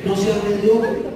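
slow, drawn-out plea; acted appeal, lingering on the words; pleading. Boss begging his employee to believe, slow and pleading. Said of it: "con un tono de súplica".

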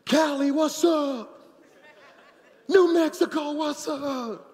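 shouted hype roll call; big loud preacher shout-outs; calling out cities. Real, not acted. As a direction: hype up the crowd, city by city.

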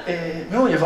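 usual speaking voice

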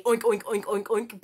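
a light oinking like a pig; piggy noise. Shown as a demonstration. Teacher making pig noises for the children. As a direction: oink like a little pig. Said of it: "make a piggy noise for me".

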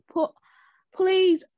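a high, loud desperate please; pleading cry. Acted. Child trapped in a bag begs loudly. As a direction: beg to be let out.

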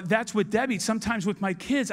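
ordinary talk, nothing marked

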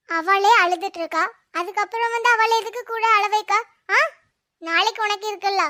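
loud, cross telling-off; scolding. Acted. Adult defends a crying child, scolding loudly. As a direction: call them over sharply and scold.

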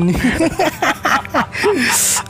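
a burst of high, breathy giggling; high giggle. Real, not acted. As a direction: giggle at his own joke. Laughing after joking apology.

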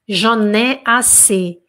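"J'en ai assez" stretched slowly, "ai" held; slow repetition model. Shown as a demonstration. Teacher leads the class in repeating, slowly. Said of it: "Vamos repetir comigo".

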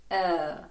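«е» held with relaxed lips, slight smile; long «е» as in girl; relaxed-lip vowel. Shown as a demonstration. Teacher models the vowel in girl, relaxed long vowel. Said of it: "коли ми розслабленими губами трошки посміхаємося".

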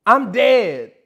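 hammed-up woman's reaction; mock woman laughing. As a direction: imitate women cracking up. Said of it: "women ... talking about".

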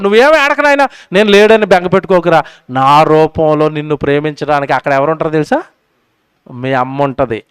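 put-on God comforting baby. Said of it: "దేవుడు ఆ మాట చెప్పాడు".

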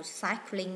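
cycling stressed on the first syllable, CY-cling. Shown as a demonstration. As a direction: put the weight on CY in cycling. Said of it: "nhấn âm một".

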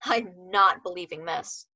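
pinched nasal, slow disbelief. Acted. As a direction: squeeze it through the nose, slowly. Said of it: "in a pinched nasal voice said".

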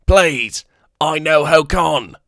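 high, loud, slow alien begging; desperate alien pleading for life; pleading Weequay. Acted.

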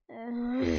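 drawn-out groan at a joke. Pretend. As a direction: let out a long groan. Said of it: "my jokes make everyone groan".

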